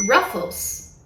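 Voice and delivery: Ruffles with a curled English R; American Ruffles. Shown as a demonstration. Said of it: "você vai ouvir".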